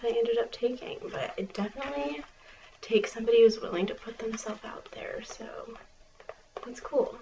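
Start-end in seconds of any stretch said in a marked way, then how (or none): 2.8-5.2 library whisper. Acted.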